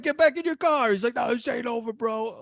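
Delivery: high-pitched acted squabble; mock argument. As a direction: act out a heated roadside exchange, hammed-up. Acts out road-rage exchange.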